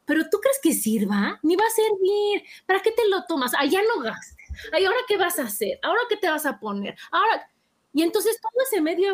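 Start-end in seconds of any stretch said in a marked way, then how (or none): 0.1-7.5 doubting friend. Pretend. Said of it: "va a salir mi amiga".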